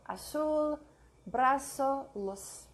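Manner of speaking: z of "Azul, brazo, luz" said as hissing s; voiceless s for the z in "brazo". Shown as a demonstration. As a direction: say "Azul" with an S sound. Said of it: "Z sounds like an S".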